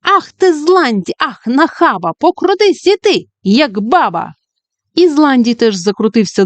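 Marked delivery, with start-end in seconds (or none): 0.0-4.3 witch's exclaim. Acted. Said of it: "свиснула й вигукнула".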